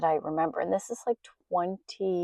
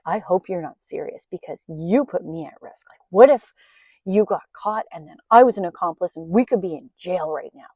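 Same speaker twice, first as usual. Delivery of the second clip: retold angry scolding, louder on what if; mad scolding; 6 dB louder than usual. Scolding her friend over smuggled drugs, angry retelling. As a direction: tell her off for putting you at risk. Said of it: "I was so mad".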